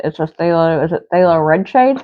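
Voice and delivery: talking around a paintbrush in the mouth; words mumbled past a brush held in the teeth; mouth full. Real, not acted. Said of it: "Sorry, I got a brush in my mouth".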